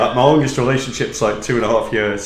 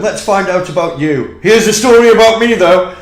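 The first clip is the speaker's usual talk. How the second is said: louder mock boast, rising higher; mocking impression; 6 semitones higher, 7 dB louder than usual. Teasing the host by imitating him, mock boast. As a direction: send him up as a self-absorbed host. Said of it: "You went".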